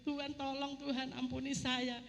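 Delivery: imitating a tearful prayer, understated; retold tearful pleading. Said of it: "saya sudah nangis guling-guling". (menirukan doa memelas sambil menangis)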